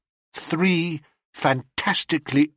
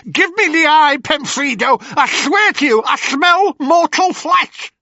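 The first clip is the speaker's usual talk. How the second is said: high, loud crone demand; demanding hag; 5 dB louder than usual. Acted. Ennio demanding the eye, high loud crone voice. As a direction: grab at it like a greedy witch.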